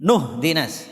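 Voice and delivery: "Nuhdinas" said as one joined word; linking syllable. Shown as a demonstration. Teacher repeating the join for listeners, "Nuhdinas" linked. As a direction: isolate the join "Nuhdinas", nu carried over. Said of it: "Begitu bacanya kalau mau sambung".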